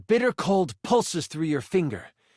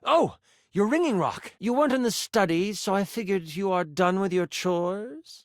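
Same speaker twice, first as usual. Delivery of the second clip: a hint of a supervising mentor, higher pitched; lightly voiced mentor; 3 semitones higher than usual. Mentor checks on apprentice's chores, lightly voiced, pitched up. Mentor talks over the ringing rock.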